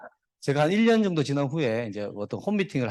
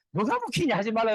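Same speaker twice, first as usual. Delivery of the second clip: high-pitched imitation of a scoffing daughter; lightly mimicked daughter, pitched up; scolding daughter; 6 semitones higher than usual. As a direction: shoot Dad down in a higher voice. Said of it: "우리 딸 옆에 보고 있다가".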